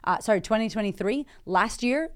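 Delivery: ordinary delivery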